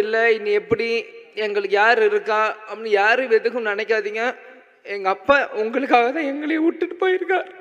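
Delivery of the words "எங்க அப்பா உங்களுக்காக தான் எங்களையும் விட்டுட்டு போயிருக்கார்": ordinary talk, nothing marked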